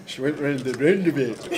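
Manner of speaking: mock Scottish cat lady accent. Shown as a demonstration. Asked how the cat lady sounded, attempted Scottish accent. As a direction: put on a Scottish accent for the impression. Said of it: "how did she sound".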